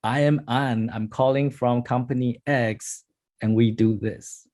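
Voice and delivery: mock bored pitch. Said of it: "you will do the".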